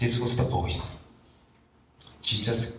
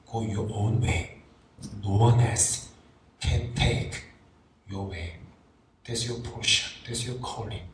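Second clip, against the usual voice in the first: low, hushed, fading almost to a whisper; intimate voice of God; 3 semitones lower than usual. Acted. God telling Jesus to go his own way, hushed and intimate. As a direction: murmur it close, like a father's private word. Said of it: "this voice was very intimate voice".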